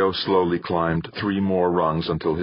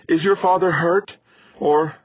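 worried; 12 semitones higher, 5 dB louder than usual. Acted. Mother fears for husband.

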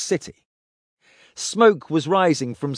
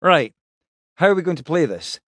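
higher, brisker captain voice; Pike's voice; 4 semitones higher than usual. Acted. Pike asks the plan.

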